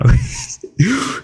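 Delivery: high burst of laughter breaking through; fail to hold in the laugh; stifled laugh. Real, not acted. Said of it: "I'm trying not to laugh".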